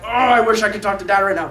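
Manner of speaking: imitating an eager kid's frustrated wish; excited longing. Excited boy who can't yet talk to his dad, retold longing. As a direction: draw out the "oh" with mild mock longing. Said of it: "So Levi is all excited".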